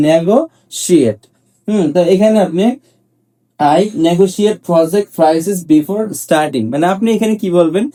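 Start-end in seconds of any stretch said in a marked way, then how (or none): 3.6-6.7 slow, careful example read; slow model sentence. Shown as a demonstration. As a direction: say it slowly for learners. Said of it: "teacher models example sentence". (ধীরে ধীরে উদাহরণ বাক্য)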